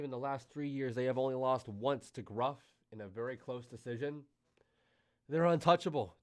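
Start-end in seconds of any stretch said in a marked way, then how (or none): 5.3-6.2 excited. Real, not acted. Hyped stream commentary.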